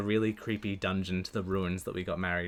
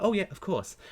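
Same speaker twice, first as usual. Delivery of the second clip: lightly voiced helpful mum, higher; a hint of a sunny mum replying; cheerful mum; 10 semitones higher, 4 dB louder than usual. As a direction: answer breezily like a mother. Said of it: "her first reaction is just like".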